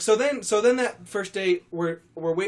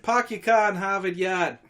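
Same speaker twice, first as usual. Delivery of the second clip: put-on Boston accent; 3 semitones higher, 3 dB louder than usual. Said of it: "let's hear your Boston accent".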